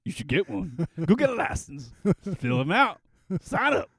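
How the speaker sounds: put-on a Southern accent, pushing guns on a friend. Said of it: "I always go into my southern accent".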